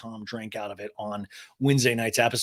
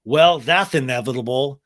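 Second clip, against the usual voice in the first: a touch of mock Sandoval, louder; Sandoval impression; 7 dB louder than usual. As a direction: lightly voice him with emphatic delivery. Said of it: "And Sandoval goes".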